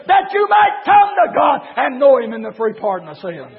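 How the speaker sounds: full-force preaching. Real, not acted.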